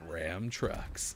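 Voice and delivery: put-on low truck-ad voice; mock deep announcer tone. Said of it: "say it with a low voice".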